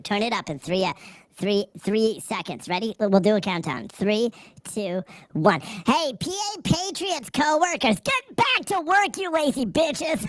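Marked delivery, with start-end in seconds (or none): 5.6-10.2 much higher, pitched-up bossy call; hammed-up scolding of P A Patriot's co-workers; mock yelling. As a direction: boss the co-workers back to work.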